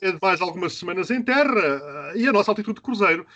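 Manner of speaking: lightly voiced pilot on the intercom; mock cabin announcement from the captain; airline captain announcement. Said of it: "imaginar o comunicado feito pela tap".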